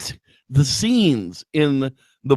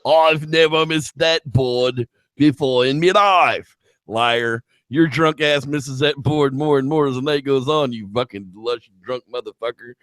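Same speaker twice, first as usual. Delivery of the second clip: put-on drunk darts player; 3 semitones higher than usual. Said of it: "it's like".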